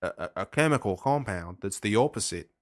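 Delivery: put-on Australian accent. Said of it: "you were indulging your Australian accent there".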